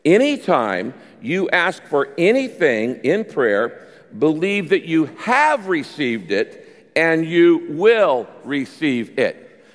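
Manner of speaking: slow read-aloud with "have" stretched and punched; deliberate pace, heavy weight on "have"; stress on have. Shown as a demonstration. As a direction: lead a group reading, leaning hard on "have". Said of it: "emphasize the word have".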